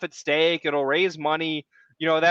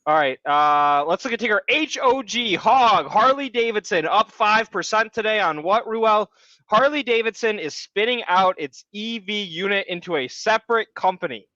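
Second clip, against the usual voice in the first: higher, pumped-up stock rant; rant mode; 4 semitones higher than usual. Real, not acted. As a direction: launch into an eager rant. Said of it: "we're going full rant mode".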